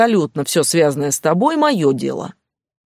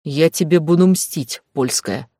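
hissed threat. Acted. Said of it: "прошипел Стас".

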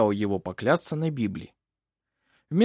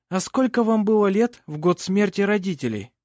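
lightly voiced, higher-pitched courtroom lawyer; questioning advocate; 7 semitones higher than usual. A narrator's reading. Lawyer questions the girl about her parents, questioning. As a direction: put the question as counsel would.

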